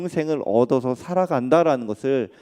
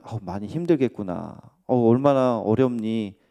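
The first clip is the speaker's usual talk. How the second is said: gentle empathy; 2 semitones lower than usual. Pretend. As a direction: ease into it like comforting a hurting friend. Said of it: "공감하고 위로하는 게 필요해요".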